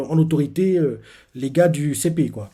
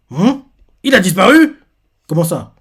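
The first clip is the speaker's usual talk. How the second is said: much higher and louder disbelief; retold stunned reaction; shocked surprise; 5 semitones higher, 10 dB louder than usual. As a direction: gasp it out in alarm. Crew hears Vegapunk vanished.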